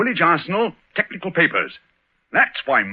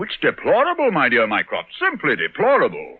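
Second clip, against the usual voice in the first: mock solemn; 3 semitones higher than usual. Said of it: "You may laugh".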